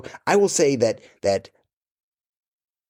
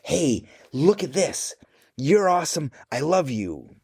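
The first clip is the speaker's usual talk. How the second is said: lunch note voice; 6 semitones higher than usual. Retold or imitated. A dad voicing his lunch notes to his kids, lightly doting. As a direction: read the lunch note like you adore them. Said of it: "and I'm like".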